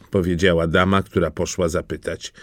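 ordinary delivery

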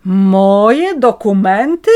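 loud, slow rising disbelief; astonished. A narrator's reading. Woman feigning shock at the police, slow loud disbelief. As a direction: act shocked at the request. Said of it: "Zdziwiłam się".

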